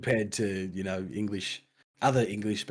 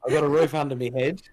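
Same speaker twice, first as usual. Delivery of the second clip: proud boast; 5 semitones higher, 7 dB louder, faster than usual. Real, not acted.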